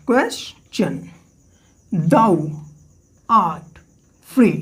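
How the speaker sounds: "question" split into ques, then tion; syllable by syllable. Shown as a demonstration. Teacher counting sounds for students, "question" broken into syllables. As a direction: break "question" slowly into two beats. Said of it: "तो number of sounds count करिए".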